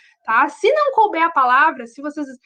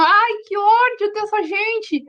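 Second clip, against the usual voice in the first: higher, slow, whiny mock outrage; mock annoyed student; 6 semitones higher, slower than usual. Teacher imitating students reading corrections, mock annoyed. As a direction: play the fed-up student, drawn out. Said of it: "olham as correções e pensam".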